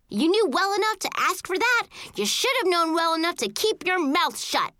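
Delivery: high, scolding sibling yell; indignant yelling. A narrator's reading. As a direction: tell your brother off, high and heated. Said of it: "I yelled".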